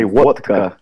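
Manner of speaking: "vodka" said slowly with a Russian accent; Russian pronunciation. Shown as a demonstration. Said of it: "They say".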